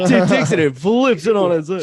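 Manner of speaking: movie trailer voice. Acted. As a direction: boom it out like an epic trailer. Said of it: "I sound like a movie trailer".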